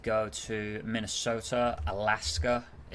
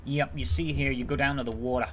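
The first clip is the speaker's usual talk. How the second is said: put-on deep Southern accent; 3 semitones higher, 5 dB louder than usual. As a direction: retell it in a mild Louisiana accent. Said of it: "quite the deep accent".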